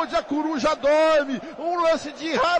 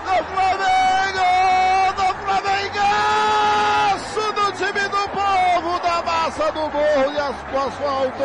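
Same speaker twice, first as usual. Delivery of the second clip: goal celebration shout; 2 semitones higher than usual. Real, not acted.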